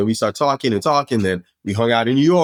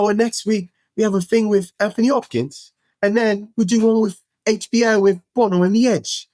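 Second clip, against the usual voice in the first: much higher offhand plan; casual name-drop; 11 semitones higher than usual. Retold or imitated. Dave casually naming dinner plans, high nonchalant voice. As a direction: list stars like errands. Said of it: "And he's like".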